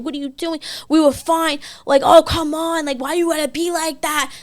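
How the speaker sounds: high-pitched, whiny-pleading mock yell; retold yelling. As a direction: imitate his protests without real volume. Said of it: "Yelling in the street".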